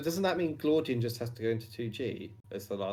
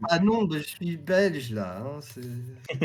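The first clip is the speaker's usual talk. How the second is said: put-on Belgian French accent; slower than usual. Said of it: "I'm not, I'm not even English".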